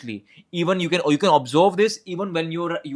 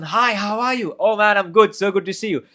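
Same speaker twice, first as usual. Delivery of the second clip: approachable friendly tone; 6 semitones higher, 4 dB louder than usual. Shown as a demonstration. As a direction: greet them like an old friend, all smiles. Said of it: "And the first person".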